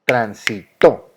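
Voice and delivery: "transitó" slowly, syllable by syllable, landing on TÓ; acento agudo marcado. Shown as a demonstration. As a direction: stretch out tran-si-TÓ for "transitó", stressing the last syllable. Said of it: "la fuerza". ("transitó" lento, por sílabas, con fuerza en TÓ)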